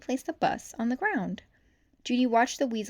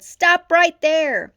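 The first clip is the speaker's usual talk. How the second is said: loud, high, slow order; commanding shout; 9 semitones higher, 14 dB louder, much slower than usual. A narrator's reading. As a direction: make each word a command. Cop chasing thief.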